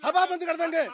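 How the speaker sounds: high-pitched, insistent declaration; emphatic claim. Real, not acted. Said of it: "दावे से कह रहा है".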